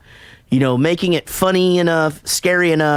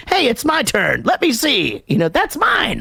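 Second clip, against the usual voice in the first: put-on whiny little kid; 8 semitones higher than usual. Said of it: "he's like".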